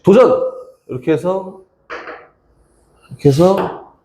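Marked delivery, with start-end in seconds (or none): 0.0-0.4 a louder, higher self-challenge cry; cheering herself on. Real, not acted. Teacher psyching herself up before drawing, excited cry. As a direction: call the challenge out like a game show.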